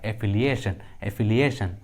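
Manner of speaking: "एफिलिएशन" ending in a clear -shan; sh sound for T. Shown as a demonstration. Teacher repeating the example, "एफिलिएशन" with T as sh. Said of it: "टी का आवाज़ श आ रहा है".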